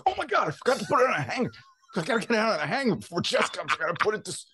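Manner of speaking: high, fast panicked rush; hammed-up, high-pitched fretting; mock panic. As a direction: scramble frantically before getting caught. Acts panic before wife comes home.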